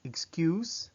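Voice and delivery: "excuse" said the English way, with a G in the X; English pronunciation. Shown as a demonstration. Teacher shows learners English "excuse", X pronounced with a G. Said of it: "as if there's a G in the X".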